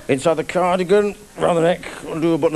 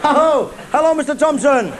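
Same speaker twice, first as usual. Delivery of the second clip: startled greeting; 10 semitones higher than usual. Acted. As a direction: blurt it out, caught red-handed. Caught lad greets girl's father.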